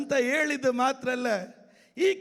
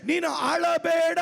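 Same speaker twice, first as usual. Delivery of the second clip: slow declaration. Shown as a demonstration. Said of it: "ಇನ್ನೊಂದು ಸಾರಿ ಹೇಳ್ತೇನೆ".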